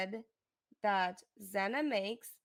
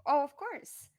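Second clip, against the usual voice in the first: sarcastic; 5 semitones higher than usual. Real, not acted. Mocking the heckler's line back.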